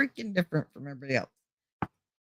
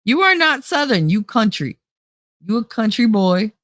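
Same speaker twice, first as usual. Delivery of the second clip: mock-mad Southern country accent; 4 dB louder than usual. Teasing someone for being country, mad Southern accent. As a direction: let the Southern accent come out scolding. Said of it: "Mine comes out when I'm mad".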